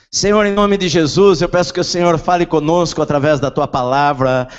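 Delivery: loud, slow, impassioned praying; fervent prayer. Acted. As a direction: pray with rising fervor. Preacher prays over congregation.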